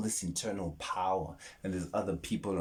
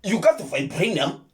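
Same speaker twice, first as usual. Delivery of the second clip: higher, louder mock Wakandan accent; Wakandan movie accent; 10 semitones higher, 7 dB louder than usual. Quoting Black Panther in a hammed-up Wakandan accent. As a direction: declaim like a Wakandan elder. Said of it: "how it sounded when they did those accents".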